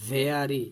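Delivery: "Very" said firmly as VEH-ree; teacher's careful "Very" with a clear English v; model pronunciation. Shown as a demonstration. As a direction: stretch the first vowel of "Very", then fall. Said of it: "কি বলতে হবে?".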